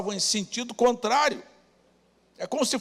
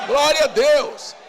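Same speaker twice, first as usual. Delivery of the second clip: praise cry; 4 semitones higher, 4 dB louder, slower than usual. Real, not acted. Praise cry after congregation's shout.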